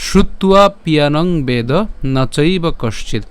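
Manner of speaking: slow, measured shloka reading; Sanskrit verse recitation. Shown as a demonstration. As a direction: recite in careful Sanskrit, word groups set apart. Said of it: "শুদ্ধ সংস্কৃত উচ্চারণে আলোচনা করব". (ধীরে, শুদ্ধ সংস্কৃত উচ্চারণে শ্লোক পাঠ)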